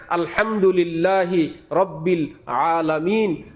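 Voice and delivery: slow, careful Arabic recitation of আলহামদুলিল্লাহি; teacher's recitation. Retold or imitated. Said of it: "আমার ওস্তাদজি আমাকে বলে দিলেন". (ধীরে শুদ্ধ তেলাওয়াত)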